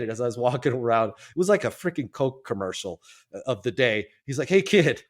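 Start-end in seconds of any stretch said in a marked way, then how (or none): 4.5-5.0 put-on raised, louder call to a kid; retold friendly holler. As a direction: call after someone walking off. Repeats the man's call after him.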